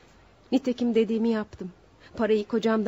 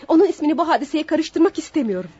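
loud, agitated protest; upset refusal; 3 semitones higher, 5 dB louder than usual. Acted. Accused woman refusing the judge's demand, loud agitated protest.

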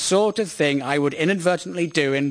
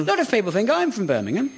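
quick, higher mimicked Birmingham accent; whining nasal Brummie; 4 semitones higher, faster than usual. Host mimicking the guest, whining nasal Birmingham accent. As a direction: parrot it back in a whiny Brummie voice. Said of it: "horrible whining nasal voice".

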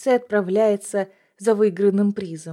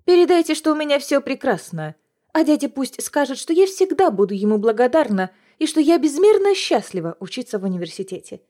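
cold fury; 4 semitones higher than usual. Acted. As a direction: spit false gratitude through rage. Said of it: "холодно отвечаю я".

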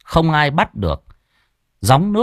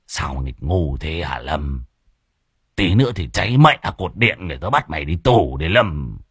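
whimpering scold; 6 semitones lower than usual. A narrator's reading. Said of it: "Môn Phọt mếu máo".

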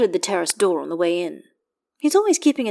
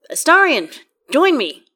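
called out high and loud across the rain; calling out; 9 semitones higher, 8 dB louder than usual. Acted. Gale calls Astarion to join him in the rain, loud call. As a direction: shout the invitation, high and bright.

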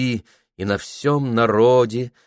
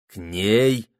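venomous question. A narrator's reading. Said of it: "ядовито спросил Прохор".

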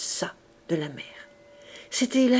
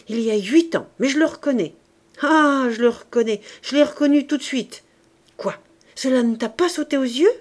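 louder, higher, triumphant and worked up; a husband bursting with his discovery, raised and eager; excited recognition; 5 semitones higher, 6 dB louder than usual. Acted. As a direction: crow over finally placing him. Jondrette excitedly recognizes the visitor.

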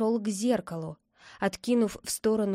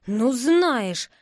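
louder, mildly seething retort; angry hiss; 2 semitones higher, 5 dB louder than usual. A narrator's reading. Friend fed up with the boy on the phone, hissing. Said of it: "зашипела в трубке".

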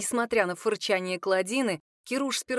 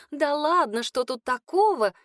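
chattering; 6 semitones higher, 5 dB louder than usual. A narrator's reading. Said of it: "затараторили все разом".

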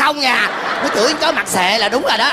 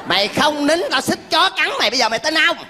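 raised-pitch mock threat; comic threat; 4 semitones higher, faster than usual. Father warning the candidate about the dog, comic high-pitched threat. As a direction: threaten them to make them hush.

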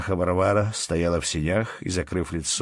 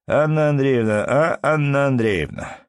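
calling out; 8 semitones higher, 6 dB louder than usual. A narrator's reading. Husband calling his wife to hear their son, calling out. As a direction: summon her from another room.

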